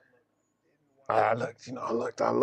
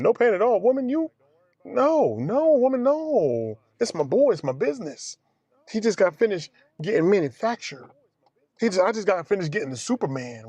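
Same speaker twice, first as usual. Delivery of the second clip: indignant mock retort; 5 semitones higher than usual. Mock argument with the nurse.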